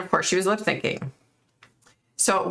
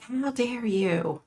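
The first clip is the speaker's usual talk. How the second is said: retold outrage; 6 semitones higher, 4 dB quieter, much slower than usual. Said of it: "I hear screaming, cussing, yelling".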